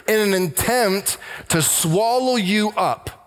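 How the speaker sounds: slow and weighty on "in an attempt to swallow you up"; stressed phrase. Shown as a demonstration. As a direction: lean on "attempt" and "swallow", slowly. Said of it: "I'm gonna stress the word".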